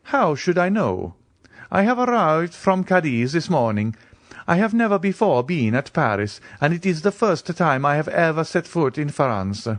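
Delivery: a nobleman waving off the question; Count's voice. A narrator's reading.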